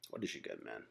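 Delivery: normal talking voice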